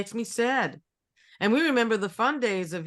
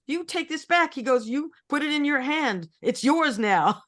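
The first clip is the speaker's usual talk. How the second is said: indignant German tourist; 7 semitones higher, 3 dB louder than usual. Retold or imitated.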